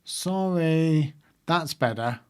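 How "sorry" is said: drawn-out, heartfelt sorry as if meant; mean it this time, like a child making a proper apology; mock sincere kid apology. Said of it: "Now say it like you mean it".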